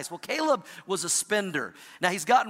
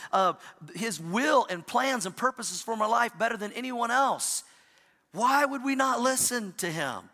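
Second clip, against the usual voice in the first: higher, slower rueful lament; rueful self-talk; 4 semitones higher than usual. Retold or imitated. Pastor voicing his regret at not listening to God, higher and slower. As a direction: mourn your own foolishness.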